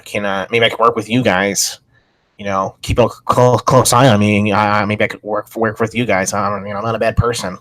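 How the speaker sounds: light impression of a man pleading his case; imitating a man's talk. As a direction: mimic him lightly, halting and repeating himself. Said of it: "I think that's how he talked".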